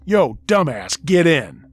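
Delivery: loud shout from a speeding car; urgent yell. Retold or imitated. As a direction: call him in, now. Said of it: "who yelled".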